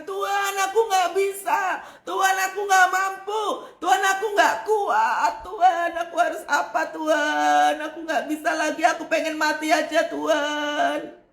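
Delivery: whining despairing prayer. Pretend. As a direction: ham up a desperate plea to God. Mock desperate prayer complaint.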